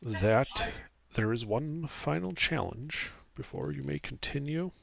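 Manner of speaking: hushed, eerie ghost fading to a whisper; ghostly voice. Acted. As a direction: speak like a restless spirit. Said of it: "he speaks with a ghostly voice".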